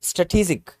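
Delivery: स्ट्रेटेजिक said stuh-tee-jik; स्ट्रेटेजिक with a short first vowel and ee; teacher models स्ट्रेटेजिक; correct strategic. Shown as a demonstration. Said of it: "देखो मैं कैसे पढ़ रहा हूँ".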